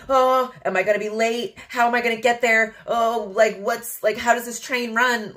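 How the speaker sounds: imitating a nervous passenger on a train; mock worry. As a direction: fuss about being late. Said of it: "rather than being like".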